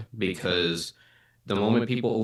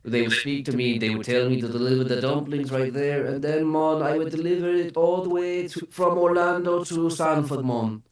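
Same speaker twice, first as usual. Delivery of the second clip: demonstrated Jamaican accent, climbing higher; 6 semitones higher than usual. Shown as a demonstration. Driver showing how restaurant staff spoke, Jamaican accent. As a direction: mimic Jamaican speech, pitch rising as it goes. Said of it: "basically a slowed down Irish accent".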